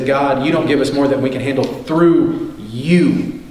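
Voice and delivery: prayer. Acted. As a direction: pray over the congregation, earnest and low.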